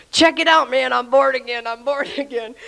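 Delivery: hammed-up bragging that breaks into laughter; retold excited boasting. New convert bragging at the bar, mock-excited.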